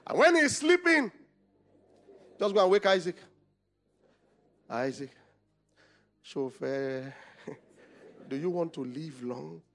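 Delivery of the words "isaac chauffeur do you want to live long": low, soft conspiratorial call; hushed mother. Acted. Mother quietly waking son to flee, hushed. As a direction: coax him quietly so the father won't wake. Mother sneaking Isaac away.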